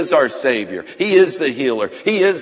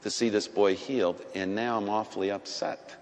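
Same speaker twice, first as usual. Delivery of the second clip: quoted prayer; 6 dB quieter than usual. Retold or imitated. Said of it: "I said".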